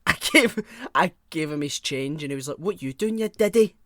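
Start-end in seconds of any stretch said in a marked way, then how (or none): 2.6-3.8 sneering mock of the customer, rising at the end; a hint of a taunting lout. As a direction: put on the rude customer's jeer. Customer mocking her in retold row.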